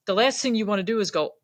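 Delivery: ordinary talk, nothing marked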